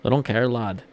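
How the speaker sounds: put-on amateur British accent, loud; badly attempted British accent. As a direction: punch out a rough British "lad" imitation. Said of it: "that's not even how it actually sounds".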